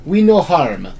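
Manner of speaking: put-on Vale accent slipping into Russian; simple words in a poor Russian accent; amateur Russian accent; bad Russian accent. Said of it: "Now you're Russian".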